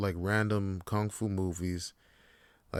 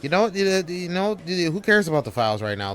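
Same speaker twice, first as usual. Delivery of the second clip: loud, higher furious yell; angry shout; 8 semitones higher, 9 dB louder than usual. Acted. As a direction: blow up at him. Employee yelling at boss.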